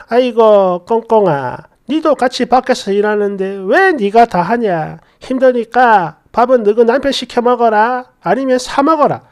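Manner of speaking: 낮고 부드러운 사투리의 시부모 연기; 며느리를 아끼듯 다독이며; 다정하던 시부모. Acted. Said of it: "진짜 진짜 좋은 분들이었어요". (예쁘게 말하던 시부모의 다정한 말투)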